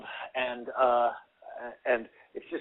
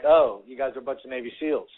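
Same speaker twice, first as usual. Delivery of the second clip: mock impressed; 3 dB louder than usual. Shown as a demonstration. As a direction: act fake impressed by the boast. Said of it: "Like this".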